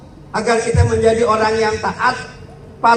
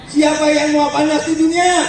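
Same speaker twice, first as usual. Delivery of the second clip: calling out; 5 semitones higher than usual. Real, not acted. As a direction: throw the question out to the whole room. Calling out question to children.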